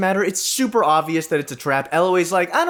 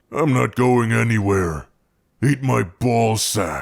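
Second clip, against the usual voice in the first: deep, pitched-down voice; 9 semitones lower than usual. Trying out the voice again after offering to pitch it down, in a pitched-down Hulk voice. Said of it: "What if I pitch it down?".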